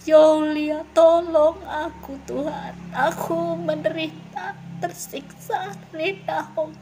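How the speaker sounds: acted wail of a sinner asking mercy; remorseful plea. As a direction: cry out in regret as a lost soul. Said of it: "akan ada perkataan".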